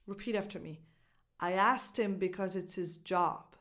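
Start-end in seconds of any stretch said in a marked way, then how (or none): 1.4-3.6 "him" and "his" reduced to "im" and "iz"; dropped H. Shown as a demonstration. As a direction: neutral reading with weak, H-less him and his. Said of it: "No H sounds".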